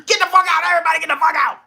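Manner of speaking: high, loud, tearful mock yell; mock crying shout. Mayor breaking down, throwing everyone out, mock crying shout. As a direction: wail at the room to get out. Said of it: "He was like".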